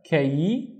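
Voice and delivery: KAY with the final E glide sounded; careful isolated "kay"; syllable demo. Shown as a demonstration. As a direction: repeat "kay" alone, finishing on the ee. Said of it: "don't forget to pronounce the E".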